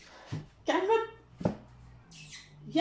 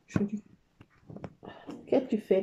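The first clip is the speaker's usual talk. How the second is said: ordinary talk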